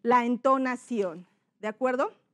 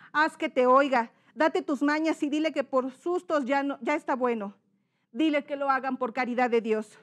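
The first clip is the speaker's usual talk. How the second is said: insistent, raised-voice begging; pleading character. Shown as a demonstration. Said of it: "son dos personajes". (súplica insistente del padre)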